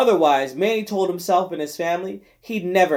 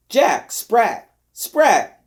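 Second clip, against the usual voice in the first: odd singsong cry; 6 semitones higher, 4 dB louder, much slower than usual. Acted. Nignag's odd outburst.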